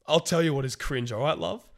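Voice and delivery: hammed-up fury at Megan for calling his line cringe; indignant rant read out. Reading Aaron's reply aloud as a pompous, outraged takedown. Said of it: "he fucking loses the plot".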